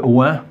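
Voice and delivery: «ouin» dit en une seule syllabe, /wɛ̃/; son «ouin». Shown as a demonstration. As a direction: prononcer «ouin» lentement, comme une syllabe modèle. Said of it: "les syllabes avec le son". («ouin» articulé en un seul son nasal)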